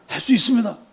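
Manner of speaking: high-pitched, confident reply; imitated boy insisting he can; eager insistence. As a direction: answer the doubter at once, pitched high. David answers the doubting king.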